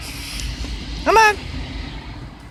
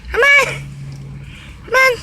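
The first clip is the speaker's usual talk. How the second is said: high coaxing call; sing-song call to a bird; coaxing a wild bird; 13 semitones higher than usual. Real, not acted. Calling the bird again.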